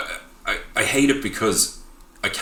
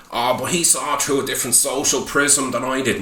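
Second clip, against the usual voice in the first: mock pretentious director; 5 semitones higher than usual. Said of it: "And he's there".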